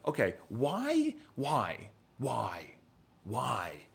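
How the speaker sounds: fading into a whisper. Retold or imitated. Pondering to himself why she ignored him, fading to a whisper. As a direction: wonder aloud, then let it die away.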